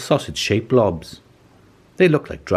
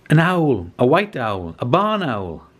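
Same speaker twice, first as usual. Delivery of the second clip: excited exclamation; 6 semitones higher, slower than usual. A narrator's reading. Narrator thrilled to finally spot the owl, excited. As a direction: gasp it out as the owl appears.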